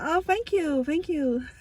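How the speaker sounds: sweetly high mock gratitude; high-pitched thanks. Replying to the director's compliment, high-pitched put-on thanks.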